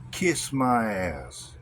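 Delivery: slow, drawn-out contemptuous sneer. Acted. Dismissive sneer at critics.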